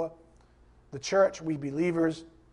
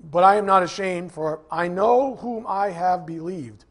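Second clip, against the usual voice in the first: preacher booming the verse; emphatic scripture reading; 6 dB louder than usual. Real, not acted. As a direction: proclaim the verse with conviction. Preacher reads verse with force.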